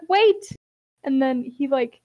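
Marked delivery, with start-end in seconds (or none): 0.1-0.5 high, loud call to stop them. Retold or imitated. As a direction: shout to halt everyone. Character stops the others.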